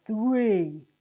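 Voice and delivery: loud, stern "Three"; final count. A narrator's reading. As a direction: bark out the last number. Sergeant finishes the count.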